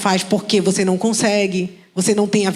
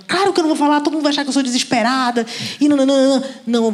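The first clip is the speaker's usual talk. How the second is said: indignant refusal; 4 semitones higher, faster than usual. Retold or imitated. Woman refusing God's request, indignant, pitched higher. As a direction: push back, scandalised at the idea. Refusing God in retold dialogue.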